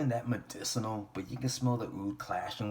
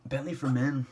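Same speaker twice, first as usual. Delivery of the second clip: higher and louder reveal; excited announcement; 5 semitones higher, 5 dB louder than usual. Shown as a demonstration. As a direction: announce it with a flourish.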